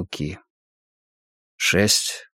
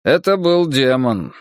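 голос монаха; 5 semitones higher, 4 dB louder than usual. Acted. Монах говорит о демоне.

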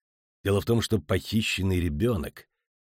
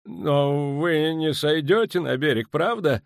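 high, slow anxious question; uneasy, higher-pitched appeal; squeezed-out worry; 9 semitones higher, 4 dB louder, slower than usual. A narrator's reading. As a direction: force the words out, nervously. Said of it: "выдавил из себя Ван Влит, слегка побледнев".

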